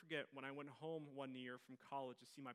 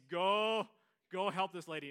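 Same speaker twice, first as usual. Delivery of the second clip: loud, higher commanding call; strong command; 5 semitones higher, 15 dB louder, slower than usual. Retold or imitated. The Lord urging him to help the old lady, loud command. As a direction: order him firmly to go help. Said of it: "the Lord saying strongly to me".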